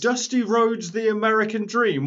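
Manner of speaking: high-pitched announcer imitation; mock ring announcer. Co-host mimics the Rumble entrant list, mock announcer.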